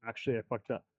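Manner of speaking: dizzy and lightheaded after a heavy set. Real, not acted. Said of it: "I'm so lightheaded right now".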